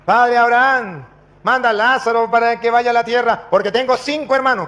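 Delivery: acted plea from torment; pleading rich man. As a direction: call up to a father, begging.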